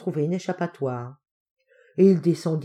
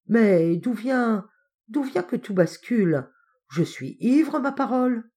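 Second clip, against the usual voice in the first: raised, drawn-out puzzlement; tipsy bewilderment; 5 semitones higher than usual. Acted. Uncle drunk on the cocktail, tipsy bewilderment. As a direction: wonder aloud as the room tilts.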